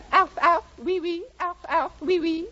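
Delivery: yappy barks mixed with French oui; French poodle yapping hello to the setter. Acted. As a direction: bark like a coy French poodle.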